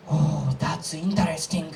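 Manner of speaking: understated reply of a friend who missed the joke; unamused Japanese friend. Acted. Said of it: "and he was like".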